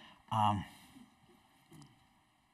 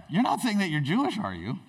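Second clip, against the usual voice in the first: high, quick question sinking at the end; dawning dread; 5 semitones higher, faster than usual. Acted. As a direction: check again as a worried villain. Haman repeats nervous question.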